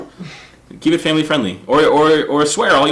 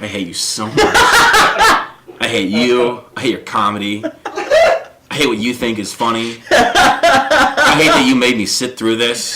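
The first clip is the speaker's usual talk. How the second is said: laughing mock hatred; slower than usual. Hating the comic.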